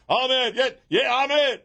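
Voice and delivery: high-pitched revival amens; imitated congregation yelps; congregation answering. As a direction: shout back like a fired-up church crowd. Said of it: "you hear everybody back going".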